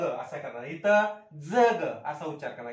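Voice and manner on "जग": जग said with a clean dental ja; जग without any y sound; dental-palatal ja. Shown as a demonstration. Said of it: "दंत तालव्य म्हणले की अनयुक्त". (अनयुक्त जग)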